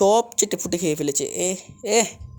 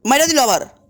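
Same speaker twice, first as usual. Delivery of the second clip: frustrated yelling; 7 semitones higher than usual. Real, not acted. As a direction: shout in disbelief at dying. Killed again by an enemy.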